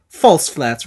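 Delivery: imitated Italian accent, falling firmly on "flats"; mock Italian pronouncement of "False flats"; Italian coach accent. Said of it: "he's got this thick Italian accent".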